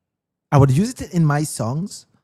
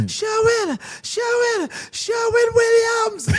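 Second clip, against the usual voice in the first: MC botching the name; slower than usual. Retold or imitated. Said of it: "He said".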